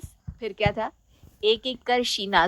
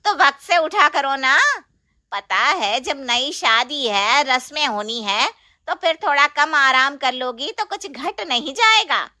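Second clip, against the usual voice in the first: lecturing aunt; 3 semitones higher, 4 dB louder than usual. Acted. Chachi lectures.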